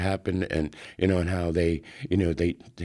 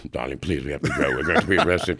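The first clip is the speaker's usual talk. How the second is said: 1 Clement urging; 3 semitones lower, faster than usual. Retold or imitated. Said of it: "Clement takes".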